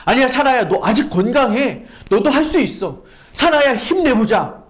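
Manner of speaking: pep-talk Sarah like a cheerleader; mock cheering. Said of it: "응원하고 언급하시나요?".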